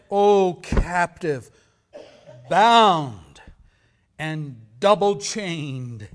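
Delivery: very loud and slow, declaimed; ghost's lament. Acted. Ghost of Marley crying out to Scrooge, loud and slow. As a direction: wail it like a chained ghost. Dramatic reading of Dickens ghost.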